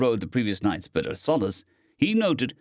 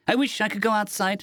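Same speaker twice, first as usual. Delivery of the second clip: whining; 10 semitones higher than usual. A narrator's reading. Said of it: "Stowaway whined".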